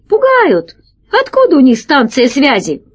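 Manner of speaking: high, scornful jeer; mock the empty threat in a high voice; scoffing pirate. Pirate jeering at the children's threat, high scornful voice.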